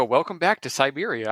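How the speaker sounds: flat robot lady voice, lightly done; robot voice announcing the game. Retold or imitated. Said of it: "that robot lady voice go".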